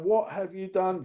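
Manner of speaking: quoting Kelly Preston. Retold or imitated. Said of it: "Kelly Preston comes running down going".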